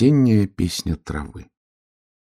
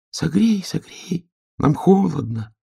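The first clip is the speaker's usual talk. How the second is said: much higher, pleading tiny voice; grass crying out; 10 semitones higher than usual. A narrator's reading. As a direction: grass begging for warmth. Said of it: "кричала трава". (тоненький жалобный крик травы)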